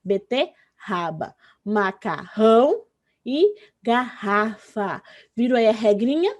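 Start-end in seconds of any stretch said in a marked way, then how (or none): 0.0-5.0 Beterraba, Macarrão, garrafa slowly, rr like H; slow syllable-split demo with aspirated R in Beterraba, Macarrão, garrafa; double R words. Shown as a demonstration. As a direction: stretch each word, strong breathy rr in Macarrão and garrafa. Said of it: "dois R's".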